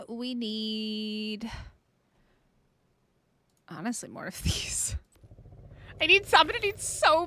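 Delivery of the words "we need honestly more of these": soft whisper with a breath of laughter; whispered aside. Real, not acted. Streamer muttering to herself while crafting, whispered with a laugh. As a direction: whisper it to yourself mid-task.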